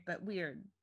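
usual speaking voice

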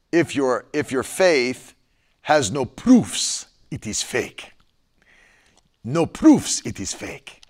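put-on slow, deliberate Nigerian accent. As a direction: quote the bishop in a Nigerian accent. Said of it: "I attempted a Nigerian accent".

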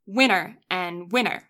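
winter said just like winner, no T; imitated merged pronunciation. Friend mimicking friend's winter that sounds like winner. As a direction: mimic "winner and winner" as identical words. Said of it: "But you say".

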